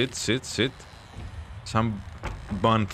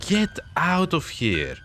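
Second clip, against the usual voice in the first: being chased; 3 semitones lower than usual. Real, not acted. Fleeing the monster in the game.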